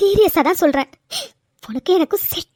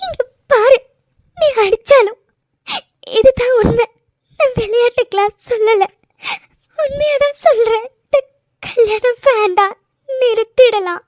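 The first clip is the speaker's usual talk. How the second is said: crying, higher voice; tearful; 3 semitones higher than usual. Acted. Slapped bride, still crying, insists the wedding stop. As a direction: speak through tears after the slap. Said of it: "அழாதடி".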